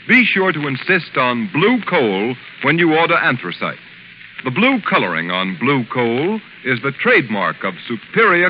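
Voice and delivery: brisk radio commercial pitch; ad read. Acted. The announcer urges listeners to buy blue coal in a brisk ad read. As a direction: sell the coal earnestly.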